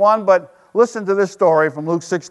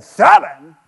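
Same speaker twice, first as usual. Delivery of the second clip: incredulous Jesus; 2 semitones lower, 7 dB louder than usual. Retold or imitated. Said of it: "Then Jesus said".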